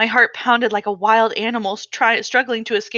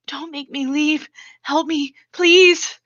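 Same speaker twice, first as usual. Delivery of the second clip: desperate begging; 6 semitones higher, slower than usual. Acted. Girl clinging to a vine, begging her father to let her stay. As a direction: beg not to be taken away. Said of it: "I begged".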